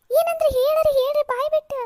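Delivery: loud, high, insistent shout; frantic demand. Acted. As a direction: shout for an answer in desperation. Mother demands the lawyers' answer. (ಜೋರಾಗಿ ಕೂಗಿ ಒತ್ತಾಯಿಸುವುದು)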